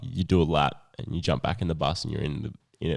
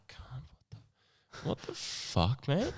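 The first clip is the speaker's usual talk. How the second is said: mock whisper; 7 semitones higher, 8 dB quieter, much slower than usual. Retelling scared reaction to yelling man.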